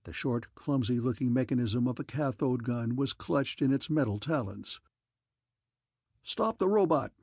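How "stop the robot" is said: an officer shouting to his guardsmen; officer's shout. A narrator's reading. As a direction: shout the command across the lawn. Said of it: "shouted an officer of the guardsmen".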